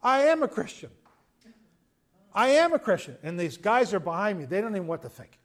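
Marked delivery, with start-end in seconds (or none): 0.0-3.2 retold tearful cry, raised high and loud; a preacher voicing a woman breaking into tears, pitched up; tearful confession. Young woman confessing to the preacher, voiced with tearful rising cry. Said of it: "She started crying".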